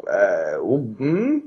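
dubious hum climbing to a question; drawn-out puzzled hemming; puzzled reaction. Retold or imitated. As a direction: retell a baffled, hesitant response. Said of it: "and we're like".

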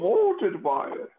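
high, slow Muppet-like villain; Tom Hardy. Acted. Masked villain boasting of the dark, comic impression. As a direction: stretch it out high and grandiose. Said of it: "Tom Hardy impression".

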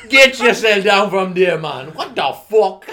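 loud mock yell with laughter. Telling a protester to get down, laughing yell. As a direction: shout him down from the palace.

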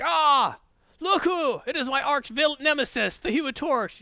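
high-pitched gloating villain voice; hammy villain. Retold or imitated. Hydro Man gloating at the Human Torch. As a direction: crow it like a cartoon baddie. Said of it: "Hydro Man's like".

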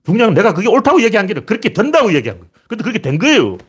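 high-pitched, indignant self-defence; heated vindication. Real, not acted. Commentator defending his prediction to viewers, heated vindication. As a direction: insist forcefully that the warning was right.

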